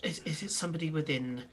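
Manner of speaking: a hint of a baffled, grateful recipient; puzzled shopkeeper. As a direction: press for answers, stumbling over the words. Game master plays the puzzled shopkeeper.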